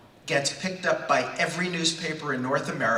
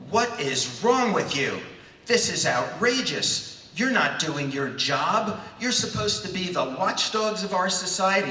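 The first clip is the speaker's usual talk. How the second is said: mock outraged scream; 5 semitones higher than usual. Young man berating a reporter on the phone, mock outraged. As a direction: scold in hammed-up outrage, stretching the key words. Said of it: "proceed to scream at him".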